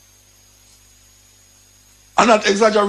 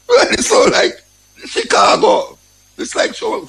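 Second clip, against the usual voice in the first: very high, half-whispered, astonished; mock amazed voice. Retelling his reaction to the cocaine bust, a high mock-amazed squeak. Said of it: "I say".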